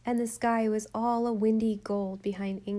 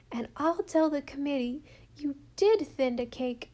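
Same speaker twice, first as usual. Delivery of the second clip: put-on a small girl pleading, higher, half sobbing; tearful little girl; 4 semitones higher than usual. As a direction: beg Mummy's forgiveness through tears. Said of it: "Rilla sobbed out the whole story".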